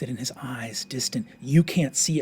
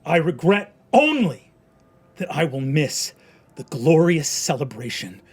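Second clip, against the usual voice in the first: high, loud speech of defiance; defiant proclamation; 4 semitones higher, 9 dB louder than usual. Acted. Condemned man addressing the crowd, loud and defiant. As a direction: hurl the last words at the crowd.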